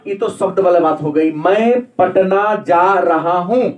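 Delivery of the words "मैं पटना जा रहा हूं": slow मैं पटना जा रहा हूं, each word drawn out; deliberate, slow teaching delivery of मैं पटना जा रहा हूं; emphatic example sentence. Shown as a demonstration. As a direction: spell out पटना and the rest word by word. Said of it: "हमारा प्रभाव पटना पर".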